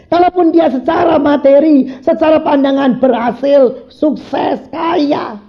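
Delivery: high, insistent sermon exhortation; fervent preaching. Real, not acted. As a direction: urge the congregation with full force. Preaches at full force. (seruan khotbah berapi-api)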